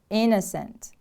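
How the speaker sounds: "Innocent" with the stress on IN; stress on first syllable. Shown as a demonstration. Teacher models the word for repeating, stress on IN in "Innocent". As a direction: stress the opening of "Innocent" and fall away. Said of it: "The stress is on the first syllable".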